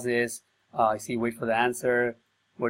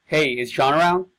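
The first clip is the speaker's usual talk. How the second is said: cold caller opening; 3 semitones higher, 6 dB louder than usual. Shown as a demonstration. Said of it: "I'm gonna read it with the emphasis".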